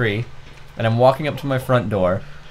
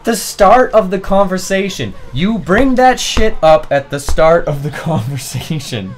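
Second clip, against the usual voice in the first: raised, louder mock outrage; loud, higher-pitched retold indignation; exasperated outburst; 7 semitones higher, 5 dB louder than usual. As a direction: lay into them in comic exasperation. Exasperated reply in retold exchange.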